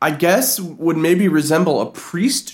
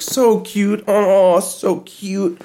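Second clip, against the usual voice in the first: mock cooing over a cute segment, a little higher; gushing TV host; 4 semitones higher, much slower than usual. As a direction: gush like a daytime TV host, lightly. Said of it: "When it's just like".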